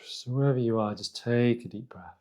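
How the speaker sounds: calm, unhurried meditation guidance with long pauses; guided meditation. Real, not acted. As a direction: guide them gently inward, leaving space between phrases.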